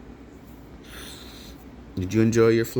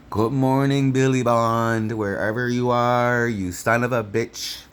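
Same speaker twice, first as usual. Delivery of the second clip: hearty shout out; 4 semitones higher, slower than usual. Real, not acted. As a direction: call across the country to your cousin. Shout out to cousin Billy.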